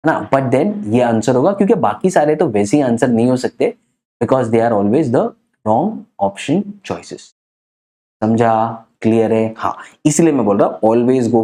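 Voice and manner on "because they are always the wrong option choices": slow dictation. Shown as a demonstration. Teacher stating a rule for notes.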